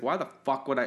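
angry, fed-up, fuming, indignant outburst. Retelling how a scriptwriter reacted to a producer's note: imitating someone fuming. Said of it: "he was fuming about this".

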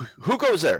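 loud yelling, pitched very high. Voicing a guard challenging newcomers from above: guard yelling a challenge. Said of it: "the male, yells".

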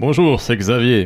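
put-on big, deep voice. Retelling how a coworker greeted people: imitating Xavier's big voice. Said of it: "il avait sa grosse voix, et moi, j'arrivais à l'imiter".

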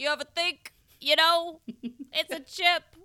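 put-on high, loud, muddled creature accent. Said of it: "So they're like".

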